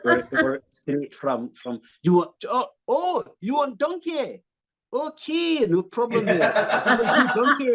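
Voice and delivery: high, slow, hammed-up Scottish accent; faltering mock-Scottish cartoon voice. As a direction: stretch out a comic Scottish voice, pitch climbing. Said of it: "do a Scottish accent".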